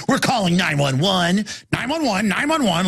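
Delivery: mild parroting repeat; like parrots. Retold or imitated. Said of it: "just like parrots".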